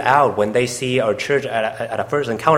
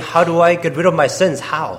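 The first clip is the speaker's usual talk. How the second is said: raised, acted-out pleading; imploring plea; 4 semitones higher than usual. Interpreter voicing the woman begging Jesus, mild imploring. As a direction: plead for an answer, easing on the last word. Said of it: "she was pleading and imploring".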